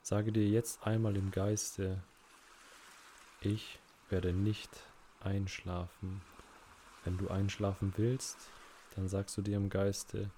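unhurried meditation guide with long pauses; measured, calm relaxation-exercise voice; guided relaxation. Acted. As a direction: ease the listener into rest, phrase by phrase.

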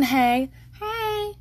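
high cheery greeting from a satsuma tree; tree saying hey. Pretend. Describing her yard, the tree calls a high hey. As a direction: chirp a little hello, as if the tree waves. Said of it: "you know, like that".

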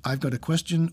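nervous rising lilt; mock question rise. Narrator re-enacting his Jeopardy-style upturn. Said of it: "making it sound like".

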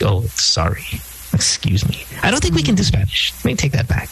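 flustered and embarrassed, take it back; mock sheepish retreat. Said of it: "now we're like".

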